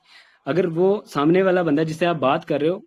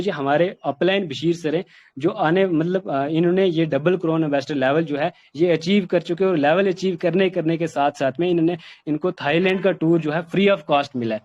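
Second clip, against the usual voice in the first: confident pitch with ups and downs; enthusiastic, confident. Shown as a demonstration. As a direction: sell the achievement with energy and confidence. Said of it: "जोश के साथ, confidence के साथ". (जोश और आत्मविश्वास के साथ)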